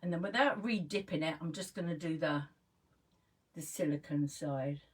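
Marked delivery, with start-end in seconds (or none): 1.4-4.8 talking with mascara face; applying mascara. Real, not acted. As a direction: mouth open while applying mascara. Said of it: "mascara face was coming out then".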